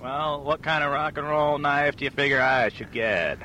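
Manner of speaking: slow beat poet drawl; a hint of a drawling old poet; pretentious poet. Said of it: "the customer is William S. Burroughs".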